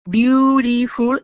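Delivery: Beautiful drawn out slowly, syllable by syllable; unhurried teacher's demo; slow model word. Shown as a demonstration. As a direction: say Beautiful slowly so students can count syllables. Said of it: "it has three syllables".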